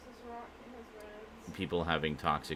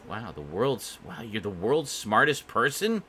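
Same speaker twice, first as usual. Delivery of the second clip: sarcastic wow; 4 semitones higher, slower than usual. Real, not acted. Sarcastic reply to chat.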